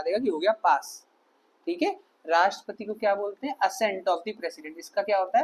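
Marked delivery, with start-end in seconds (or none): 3.6-4.8 very slow and soft; slow dictation. Shown as a demonstration. Teacher dictating the term for students to write down. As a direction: lay each word down for notes. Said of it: "dictating the term".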